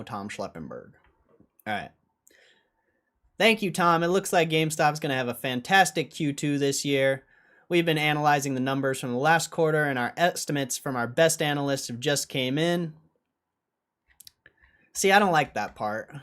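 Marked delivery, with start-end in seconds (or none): 3.4-12.9 upbeat news anchor read. Acted.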